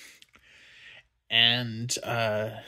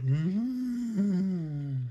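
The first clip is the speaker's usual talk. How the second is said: breathy high whispered mm-hmm; a stoned little whisper of approval; mock whisper; 7 semitones higher than usual. To the viewer, mocking himself high on edibles, a high whisper. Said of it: "be all like".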